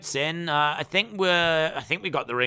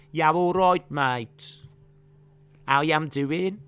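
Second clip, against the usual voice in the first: put-on broad Birmingham accent, louder; imitating Birmingham locals with a broad Birmingham accent; Birmingham accent impression; 4 dB louder than usual. Mocking the Birmingham accent for the stream chat. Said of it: "They talk like that".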